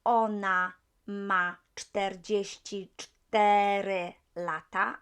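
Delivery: slow, careful Polish ona ma czterdzieści cztery lata; Polish age phrase. Shown as a demonstration. Teacher modelling ona ma czterdzieści cztery lata slowly. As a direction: spell out each Polish word slowly for the learner. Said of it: "I'm saying cztery".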